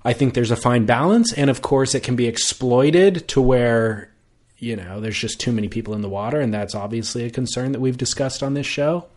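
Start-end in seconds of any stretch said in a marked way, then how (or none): 4.6-9.1 hushed, quick and soft; hushed tones. Real, not acted. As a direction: drop to a near hush, hurried. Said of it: "you say that in hushed tones".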